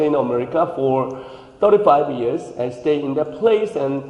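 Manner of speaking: put-on American accent. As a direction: drawl it like a Korean-American missionary. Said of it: "미국에서 왔습니다".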